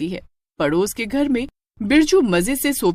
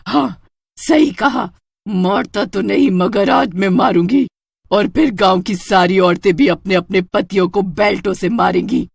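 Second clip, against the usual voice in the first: menacing witch; 4 dB louder than usual. Acted. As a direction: gloat over the beaten husband. Witch threatens husband. (पति को धमकाती चुड़ैल, रौबदार आवाज़)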